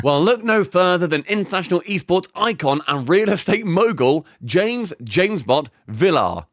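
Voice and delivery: lightly performed commercial read. Acted. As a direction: deliver it as a sponsor pitch. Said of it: "do it in an ad read".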